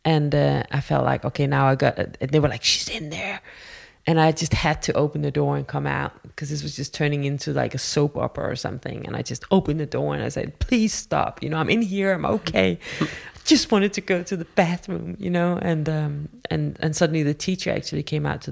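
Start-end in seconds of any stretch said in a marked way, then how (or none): 2.6-3.4 softer, higher hushed voice; retold hushed disclosure. Women at the toilet door, hushed disclosure. Women pointing out her hiding place. 10.6-15.2 retold pleading. Girl opening the bathroom door to searchers, mild plea.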